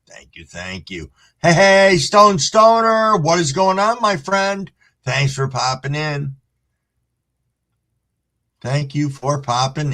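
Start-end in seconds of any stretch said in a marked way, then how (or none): 1.4-4.7 excited greeting. Real, not acted. Streamer welcomes a friend into chat, high and loud. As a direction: welcome a buddy warmly.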